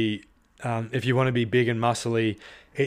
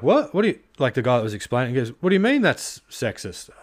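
incredulous; faster than usual. Retold or imitated. The guy's retold incredulous reply.

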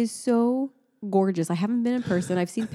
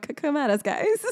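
playful challenge; 8 semitones higher than usual. Real, not acted. Joking sponsor challenge.

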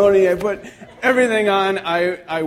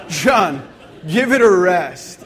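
comic fed-up plea, louder at the end; mock exasperation; 5 dB louder, slower than usual. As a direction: scold a friend in playful exasperation. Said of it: "this is how I feel about John".

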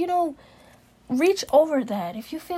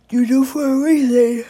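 loud; 10 dB louder than usual. Real, not acted. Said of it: "Excuse me".

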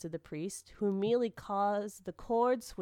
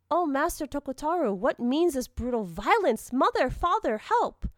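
high, loud cries for help; crying out in terror; 7 semitones higher, 6 dB louder than usual. A narrator's reading. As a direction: act a frightened girl calling out, rising higher to the end. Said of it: "the girl cried and screamed".

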